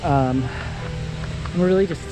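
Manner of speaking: talking mid-jog; while running. Real, not acted. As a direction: speak while running along. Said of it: "I'm gonna go back to running".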